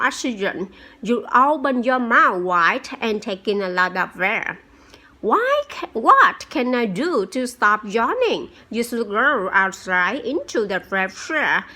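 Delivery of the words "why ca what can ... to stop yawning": put-on child voice. Student Jason asks the teacher.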